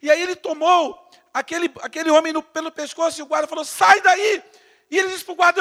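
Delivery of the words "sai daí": loud high barked order; police command. Retold or imitated. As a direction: order him off the scene. Guard orders again.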